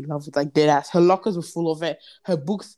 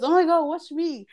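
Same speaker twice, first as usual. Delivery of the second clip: mock girlish squeal, very high; imitating show-off girl; 10 semitones higher than usual. Girl calls to her crush at the slide, high mock excitement. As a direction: imitate her excitedly calling for attention, pitched way up.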